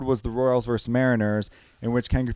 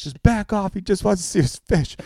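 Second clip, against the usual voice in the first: Kramer; 6 semitones higher than usual. Retold or imitated. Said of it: "Kramer's driving him".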